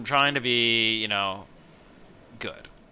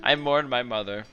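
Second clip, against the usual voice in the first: tender grief. Acted. Anders mourning mother, grateful.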